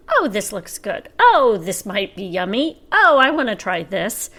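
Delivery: mildly hammed-up delight at every item; tempted shopper. Hungry shopper grabbing everything in the store, mock eager.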